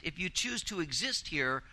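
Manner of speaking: "exist" given deliberate emphasis; stress on exist. Real, not acted. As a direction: bear down on the word "exist". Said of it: "I emphasize the word exist".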